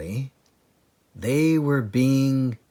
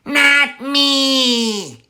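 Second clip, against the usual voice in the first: high, louder scream; 5 dB louder than usual. Acted. Bunce refusing as he runs away, screaming. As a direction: yelp it in panic. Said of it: "screamed Bunce".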